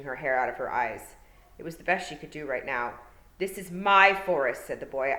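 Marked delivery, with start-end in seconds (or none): 3.4-4.7 put-on haughty boy. A narrator's reading. Haughty boy commands Tiffany.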